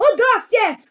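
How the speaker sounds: high, loud cry. A narrator's reading. Mrs. Gloop crying to her son, high and loud. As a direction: shout the name up high. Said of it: "cried Missus Gloop".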